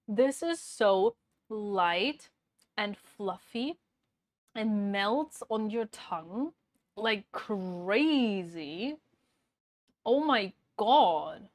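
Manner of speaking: slow, drawn-out delighted praise; savoring. Real, not acted. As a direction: stretch each word, savoring the taste. Savoring taste test.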